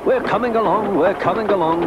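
high, lilting singsong answer; singsong reply. A narrator's reading. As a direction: chime back in a high singsong. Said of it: "sang Annie and Clarabel".

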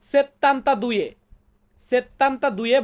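slow, syllable by syllable; slow demo. Shown as a demonstration. Teacher sounds out an Italian number for students, slowly. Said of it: "Italian ভাষাতে বলবো".

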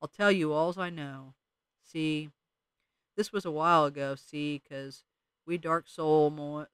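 slow, dragging mole drawl, words stuck in soil. Acted. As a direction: let each word crawl out of the dirt. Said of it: "He talked slowly as if his words were stuck in soil".

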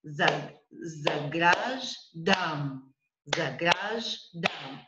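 "заграждам" slowly as "за-граж", pause, "дам"; split at last syllable. Shown as a demonstration. Teacher shows last way to split, final syllable apart. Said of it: "at the last syllable".

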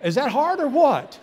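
high, loud, laughing tease. Real, not acted. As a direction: laugh at the crowd while teasing them. Teasing congregation after their exercise.

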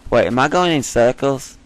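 badly faked British accent; terrible British accent. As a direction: keep up a joking British accent. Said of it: "I have a terrible British accent".

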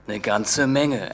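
slow, weighty emphasis; drawn out. Acted. Father lecturing son on cost, slow and weighty. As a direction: spell out the price slowly.

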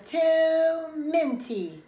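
high, loud, drawn-out whine; loud complaint. Acted. Child objects at bedtime, loudly complaining. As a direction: hold the first word long in disgust.

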